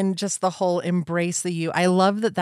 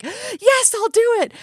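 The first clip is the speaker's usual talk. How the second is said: much higher and louder eager yes; swept-up yes; 6 dB louder, slower than usual. Retold or imitated. Agreeing to the friend's request, much higher and louder eager yes. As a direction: blurt yes caught in the excitement. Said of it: "because she's all excited".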